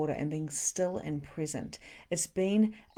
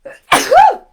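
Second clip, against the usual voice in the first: sneeze; 21 dB louder than usual. Real, not acted. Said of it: "I'm gonna sneeze".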